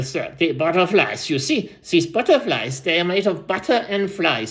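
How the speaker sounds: lightly voiced rambling old storyteller; aging storyteller. Old storyteller tells the crowd about butterflies, lightly put-on voice. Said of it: "let me switch voices".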